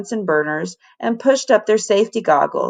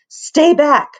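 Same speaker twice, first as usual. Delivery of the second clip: sharp, louder warning; 8 semitones higher, 6 dB louder than usual. Acted. Mother warns boy away from her sick child, louder. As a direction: hold the boy back firmly. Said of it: "warned Missus Zoster".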